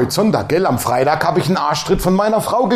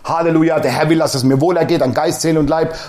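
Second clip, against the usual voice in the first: rattled-off confession; 3 semitones lower than usual. Shown as a demonstration. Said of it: "aufstehen und sagen".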